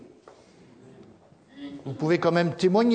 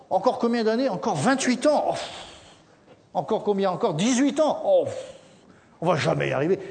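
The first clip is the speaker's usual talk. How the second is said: grumbling people; 4 semitones higher than usual. Acted. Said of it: "Les gens grognaient".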